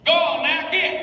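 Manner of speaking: high, loud Southern shooing; demonstrated Southern send-off. Shown as a demonstration. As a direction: crouch into a Southern holler. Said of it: "crouch down when you're doing your Southern".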